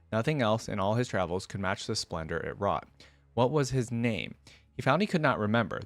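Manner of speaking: measured, even storytelling read; story narration. Acted. Vlogger reading a League lore story aloud to viewers, in a storytelling voice.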